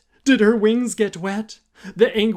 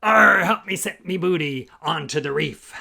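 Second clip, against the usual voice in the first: pirate crab voice. Acted. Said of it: "The pirate crab".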